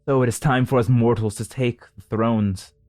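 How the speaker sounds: rally the crowd with grand authority; commanding goddess speech. Acted. Gaia rallying the council to ascend, rousing.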